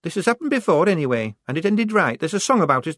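high, loud defiant outburst; rounding on her. A narrator's reading. Shufti rounding on Polly who suggests going home, defiant. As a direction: turn on her and refuse to back down. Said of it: "rounding on her".

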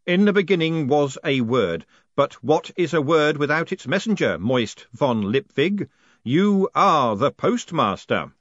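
slow, loud, booming spirit voice; ghostly voice. Acted. The haunted post office pronounces Moist postmaster, slow and booming. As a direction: intone it like the building itself speaks. Spectral voice proclaims.

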